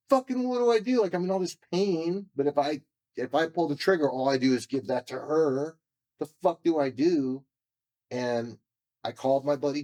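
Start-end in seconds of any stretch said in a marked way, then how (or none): 0.1-7.4 desperate inner cry. Retold or imitated. Retold desperate thoughts before suicide.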